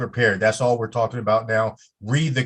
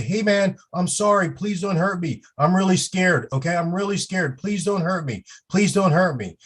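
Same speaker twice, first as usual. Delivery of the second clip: higher pleading voice, hammed-up fear; acting scared; 6 semitones higher than usual. Shown as a demonstration. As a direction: play frightened so the crowd hears you. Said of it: "making noise as though we're scared".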